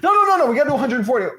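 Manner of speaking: a high, loud protest, lightly voiced; a hint of a pushy partner; partner Rick cutting in. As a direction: barge in as the other partner. Voicing partner Rick interrupting.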